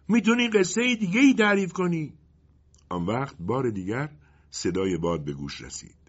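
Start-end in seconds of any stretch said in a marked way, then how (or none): 0.1-2.1 high, louder genie voice from the dark. A narrator's reading. Genie calling to the wind for another story, high genie voice. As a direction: pitch it way up like a little genie. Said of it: "جنی از تاریکی گفت".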